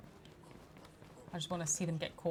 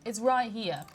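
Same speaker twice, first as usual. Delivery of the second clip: exasperated scolding; 4 semitones higher, 6 dB louder, faster than usual. Real, not acted. Exasperated at complaining game characters.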